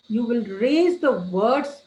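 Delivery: slow, firm stress across "raise the words"; emphasized words. Shown as a demonstration. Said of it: "whenever you want to emphasize".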